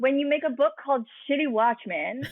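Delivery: talking through laughter; laughing. Real, not acted. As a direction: laugh while explaining.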